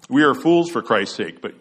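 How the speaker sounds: lightly sarcastic quotation, YOU stressed. Acted. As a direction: set "you" against "we" with mild sarcasm. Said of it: "Paul says sarcastically".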